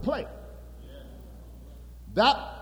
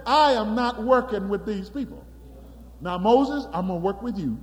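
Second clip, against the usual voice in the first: angry God. Acted. Preacher voicing angry God.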